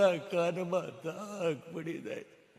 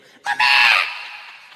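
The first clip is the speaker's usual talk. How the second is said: put-on child's cry; 6 semitones lower, 13 dB louder, much slower than usual. Child falls and cries out.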